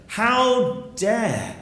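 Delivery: high, indignant parent imitation; hammed-up indignation on a drawn phrase; mock outrage. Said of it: "Many of your parents were very angry".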